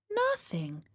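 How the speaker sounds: breathy whisper of nothing. A narrator's reading. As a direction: whisper it into the silence. Suspenseful count of silence.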